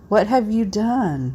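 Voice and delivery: put-on slow, small, eerie child voice; tiny haunting voice. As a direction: whisper it like a creepy little ghost child. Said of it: "in a tiny haunting voice".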